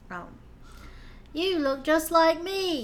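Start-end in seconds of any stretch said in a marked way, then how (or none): 1.3-2.8 half-hearted, put-on British Cockney accent. Asked to redo a movie line in a British accent, the speaker tries a British Cockney accent. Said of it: "can you do that in a British accent?".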